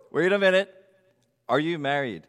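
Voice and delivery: normal talking voice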